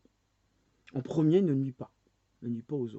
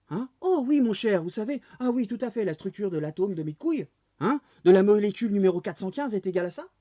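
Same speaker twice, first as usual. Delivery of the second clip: mock petit bourgeois; 3 semitones higher, 4 dB louder than usual. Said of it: "Petit bourgeois, le thé?".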